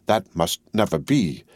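slow, lightly croaked; mild croak. Acted. Jacques three agreeing with Madame, a slow mild croak. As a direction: croak it out slowly and firmly. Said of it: "croaked Jacques three".

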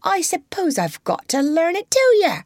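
high weary complaint; resigned mother. A narrator's reading. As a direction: give in with a sigh.

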